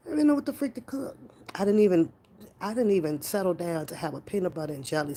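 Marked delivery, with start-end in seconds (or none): 0.1-1.2 exasperated. Real, not acted. Venting about dinner indecision.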